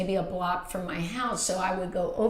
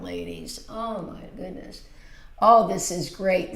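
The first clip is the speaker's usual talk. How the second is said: ordinary talk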